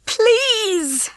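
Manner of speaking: high, tearful plea; desperate hen pleading through tears; begging. Acted. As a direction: beg him with a crack of tears in the voice. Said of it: "she begged".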